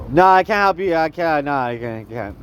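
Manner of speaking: mock brush-off. Bitter man refusing spare change, dismissive mock brush-off. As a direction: wave them off, fading into a low mumble.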